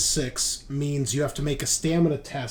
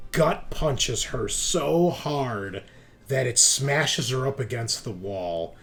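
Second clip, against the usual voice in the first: paced action narration with pauses; game master's narration; 6 dB louder, slower than usual. Pretend. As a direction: narrate the blow in slow, punched phrases.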